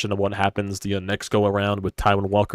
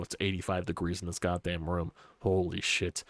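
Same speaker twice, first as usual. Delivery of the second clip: congested, blocked nose voice; stuffy nose; 4 dB quieter than usual. Real, not acted. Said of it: "that's why I sound a little congested".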